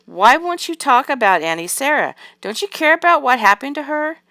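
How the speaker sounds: high, loud, pleading challenge; upset demand. A narrator's reading. Doll girl confronting parents about missing aunt, upset and demanding. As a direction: press them urgently, pitch climbing on the question.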